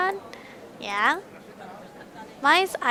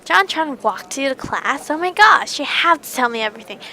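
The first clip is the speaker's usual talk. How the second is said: excited gushing; 3 semitones higher, 6 dB louder than usual. Acted. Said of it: "Mai emitted a high pr-, pressurized squeal".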